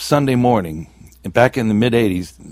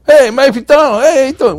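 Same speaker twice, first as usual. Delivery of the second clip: loud, high-pitched delighted hello; hearty acted greeting; 7 dB louder than usual. Cops recognize him at the door, acted hearty greeting. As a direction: call out like greeting an old pal.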